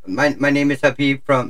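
put-on call-centre worker with an Indian accent; lightly mimicked Indian accent. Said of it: "my Indian accent is pretty good".

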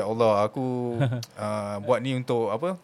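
murmured, slowed-down prayer to God; quiet slow prayer. Retold or imitated. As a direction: hush it like a private plea, slowly. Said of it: "So, aku kat situ".

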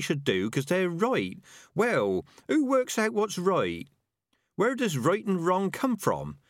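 high-pitched rat arguing its case; philosophical rat. Acted. Rat persuading doubting Tomato about right and wrong, earnest.

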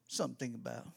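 ordinary delivery

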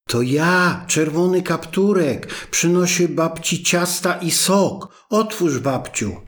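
put-on wolf faking a girl. Wolf at the door pretending to be Red Riding Hood, in a high sweet voice. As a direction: pitch it up to pass as the child.

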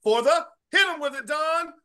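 high, loud, stretched showman announcement; ringmaster. Acted. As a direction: boom it out like a circus ringmaster. Hosting intro, announcer style.

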